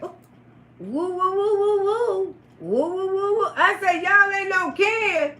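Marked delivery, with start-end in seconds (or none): 0.0-3.5 high, hooting woo calls; excited whooping. Retold or imitated. Teller whooping at her date's surprising revelation, high hoots. 4.0-5.3 slow, high, laughing through the words; laughing disbelief. Retold or imitated. Teller repeating his claim to him, slow and laughing.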